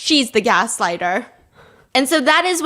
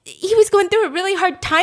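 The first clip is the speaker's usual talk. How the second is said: a hushed whisper as if others might hear; whispered secret; 6 semitones higher than usual. Retold or imitated. Husband confiding the friend's trouble, whispered. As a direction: lean in and whisper it. Telling the secret under breath.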